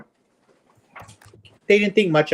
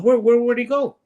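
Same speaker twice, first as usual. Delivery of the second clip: eager question; 8 semitones higher than usual. Retold or imitated. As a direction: demand to know where he went. Barber eager for the answer.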